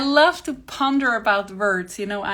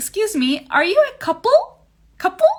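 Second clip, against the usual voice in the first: very high, squeaky little voice, rising intonation; 11 semitones higher, 6 dB louder than usual. Retelling how a man approaches couples with a question, in a squeaky voice. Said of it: "he's asking them with his squeaky voice".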